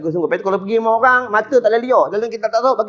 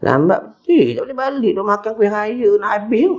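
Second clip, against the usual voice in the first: grumbling host's inner voice; 4 semitones lower than usual. Retold or imitated. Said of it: "hati dia cakap".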